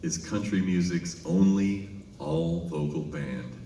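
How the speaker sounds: slow, measured announcer's build-up; lightly voiced stage announcer introducing the band; mock announcer. Opry announcer introducing the group, slow mock announcer voice. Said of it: "the announcer for the Grand Ole Opry says".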